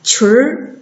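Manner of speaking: 裙儿 as one syllable with curled r ending; erhua demo. Shown as a demonstration. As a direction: model 裙儿 for learners, r-coloured. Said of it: "跟着老师读".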